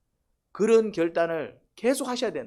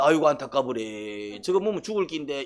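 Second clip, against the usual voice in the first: mock hollow pity; 2 semitones lower than usual.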